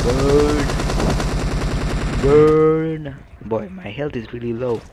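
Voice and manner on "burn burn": gleeful shout. Real, not acted. Shouting while using flamethrower.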